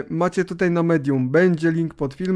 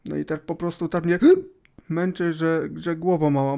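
hiccuping between words; breaking off with hiccups. Real, not acted. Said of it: "mam czkawkę od wczoraj".

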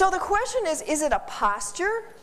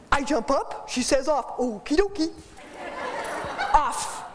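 voicing the dog. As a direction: speak as the dog, happy to play along. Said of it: "What did she learn about jumping up".

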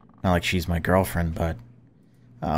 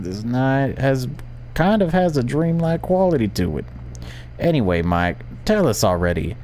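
radio DJ voice; 7 semitones higher than usual. Acted. Radio host voice.

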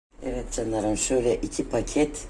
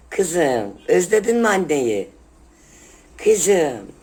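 high squeal; 8 semitones higher, 8 dB louder, slower than usual. Real, not acted. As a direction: squeal with love at your pet. Squealing fondly at her pet. (tiz ve yüksek sesle sevgi)

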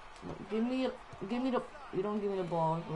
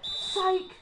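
high, sudden taunting cry; gleeful fake-out; 8 semitones higher, 4 dB louder than usual. Real, not acted. Player faking out the opponent, high taunting cry. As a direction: pop it out as a gotcha.

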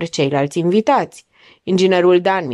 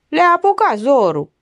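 higher-pitched, mild grumble; grumbling; 7 semitones higher than usual. A narrator's reading. Lawyer grumbling about guests' hurry, mildly peevish. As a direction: grumble to yourself at the window. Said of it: "Bombănii cu ochii pe geam".

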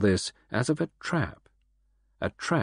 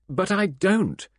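high, slow, wailing denial; almost wailing it out; near wail; 9 semitones higher, 3 dB louder, slower than usual. A narrator's reading. Ursula to Poirot, near a wail. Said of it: "almost in a wail".

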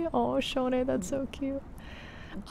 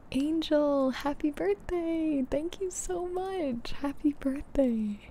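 high, slow, gushing birthday greeting; excited birthday wishes; 5 semitones higher, slower than usual. Real, not acted. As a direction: coo it like greeting a pet. Birthday greeting to a viewer's dog.

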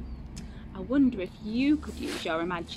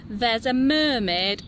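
higher, slow, thrilled reveal; excited secret; 6 semitones higher, 3 dB louder than usual. Acted. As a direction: savour the big surprise.

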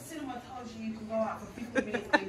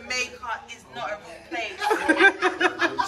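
laughing slowly; 5 dB louder, much slower than usual. Real, not acted. Laughing disbelief.

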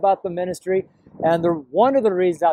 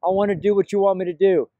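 earnest, pitched-up words of surrender; earnest retold prayer; 3 semitones higher than usual. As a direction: offer yourself to God in an insistent prayer. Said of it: "I said".

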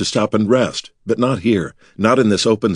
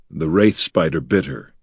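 grim; 3 semitones lower than usual. Acted. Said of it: "he said grimly".

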